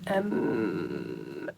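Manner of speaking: yawning through the word; mid-yawn filler. Real, not acted. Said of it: "Sorry, I'm yawning about a bit".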